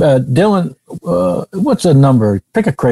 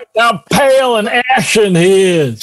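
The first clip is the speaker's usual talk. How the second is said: high pleading; 9 semitones higher than usual. Acted. Pleads for sick friend loudly.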